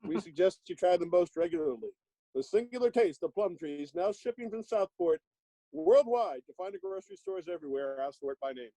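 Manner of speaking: high, bouncy vintage announcer read; chipper 1950s ad. Acted. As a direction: pitch it like an old radio commercial. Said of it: "I'll just read from the back of this one".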